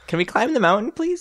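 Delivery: high, eager pleading; begging excitedly. Retold or imitated. Friends begging to climb mountain.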